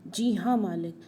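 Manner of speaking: squeaky-high angry mockery; angry mimicking. A narrator's reading. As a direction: repeat it jeeringly, pitch leaping up. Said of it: "गुस्से से तुतलाने लगता है". (गुस्से में ऊंची आवाज़ में नकल)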